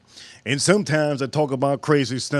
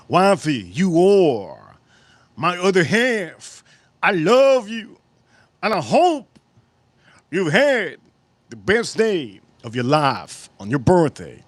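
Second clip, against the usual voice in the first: reading as a loving wife; slower than usual. Pretend. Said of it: "I did sound like I'm talking to somebody".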